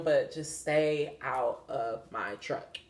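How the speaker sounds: soft, slow, deliberate plea. Real, not acted. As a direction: ease it out slowly. Firm request to the bees.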